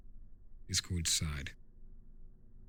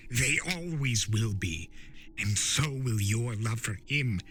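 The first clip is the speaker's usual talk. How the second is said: Discord, sly spirit of chaos; 2 semitones higher than usual. Acted. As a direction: tease him like a know-it-all chaos spirit. Discord presses Turek.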